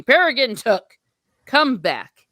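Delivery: loud, commanding wizard's call; calling him back. Acted. Gandalf calling Pippin back to himself, firm and loud. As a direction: raise your voice to summon him.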